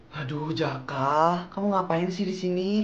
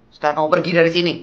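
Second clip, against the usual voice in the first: louder, firm command to leave; angry order; 2 semitones higher, 8 dB louder than usual. Acted. Mother sending her son away, loud and angry. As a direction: order him out of the house.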